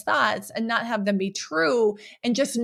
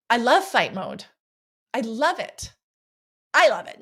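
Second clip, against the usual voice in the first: real excitement. Real, not acted. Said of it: "I was so excited".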